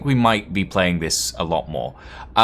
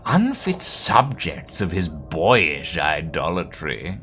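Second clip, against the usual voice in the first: grand, lofty dramatic reading with swooping stresses; theatrical narration; 2 semitones higher, slower than usual. Acted. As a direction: relish the archaic words like an orator. Reads game text in dramatic voice.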